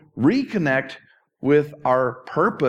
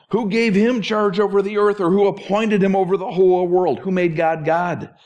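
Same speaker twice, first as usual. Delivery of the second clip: higher, louder rhetorical challenge; a hint of Elihu's fire-and-brimstone preaching; 5 semitones higher, 3 dB louder than usual. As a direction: hurl the questions like a fiery preacher.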